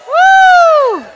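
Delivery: very high loud woo cheer. Real, not acted. Speaker cheering with the audience, high whoop. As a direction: whoop like at a stadium.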